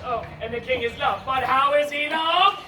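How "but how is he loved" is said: slow, louder question with rising end; building question. Acted. Narrator asks how the king is loved, slow build-up. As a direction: stretch it out and lift the end.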